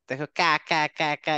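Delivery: কা with the tongue pressed up at the back; ka demo. Shown as a demonstration. Teacher drilling the ক্যাফ sound for students. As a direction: repeat কা, কা with a hard back press. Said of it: "এরকম".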